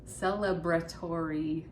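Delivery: deliberate repeat. Real, not acted. Repeats the word more deliberately.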